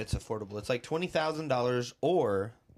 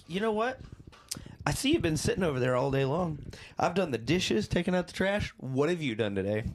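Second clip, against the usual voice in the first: complaining robot; 5 semitones higher than usual. Pretend. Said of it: "the robot starts complaining".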